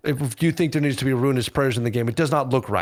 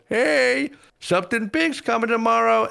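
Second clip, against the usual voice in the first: teaser announcement voice; 10 semitones higher than usual. Retold or imitated. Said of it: "they were like".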